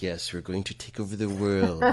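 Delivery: lightly voiced cartoon villain; hint of a scheming cartoon villain; mad scientist. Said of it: "like it's something you hear on a cartoon".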